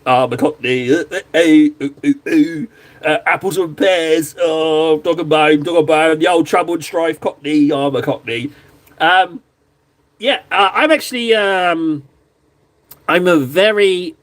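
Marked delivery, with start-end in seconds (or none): 0.1-8.5 hammed-up Cockney put-on; cartoonish Cockney patter; mock Cockney accent. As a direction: play at being a Cockney, broad vowels. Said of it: "I'd love to sound like a Cockney".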